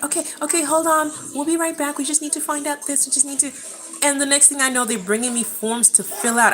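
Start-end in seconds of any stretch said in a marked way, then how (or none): 0.0-3.5 higher-pitched brush-off in a staffer's voice; stalling hospital staff. Retold or imitated. Nurses fob off the labouring patient, mock placating. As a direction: imitate busy nurses putting a patient off. Retells staff putting her off.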